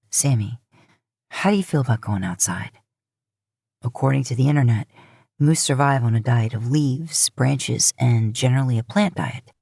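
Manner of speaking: a man coaxing his brother outside. Acted.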